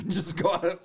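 high, loud mocking lilt; mock breezy exit. Shrugging off girlfriend's complaint, loud mocking lilt. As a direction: brush her off with a bright sing-song.

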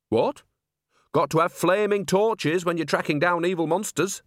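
a hint of a chatty old woman; cheerful old nanny. Nanny explains monsters.

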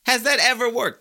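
second take pushed up to a near shout. Real, not acted. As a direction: hammer the question harder in disbelief. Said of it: "I know I'm ranting today".

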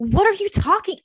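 high, loud exasperated outburst; retold yelling. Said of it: "yelling at her".

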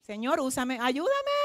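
soft, pleading prayer to the Lord; hushed prayer. Real, not acted. Preacher asks God softly to use him. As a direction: pray it quietly, almost to yourself.

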